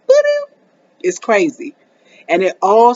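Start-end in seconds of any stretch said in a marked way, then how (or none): 0.1-0.5 high, loud sulky grumble; hammed-up pouting noise; mock grumpy noise. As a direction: sound out a bad mood. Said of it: "her whole day is just like".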